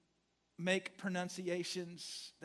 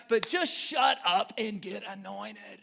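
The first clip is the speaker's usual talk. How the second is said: louder, slower, punching "just shut up and get anointed"; emphatic preaching; 2 semitones higher, 8 dB louder, slower than usual. Shown as a demonstration. Preacher telling the church to just shut up and get anointed, loud. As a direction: hammer "just" home from the pulpit.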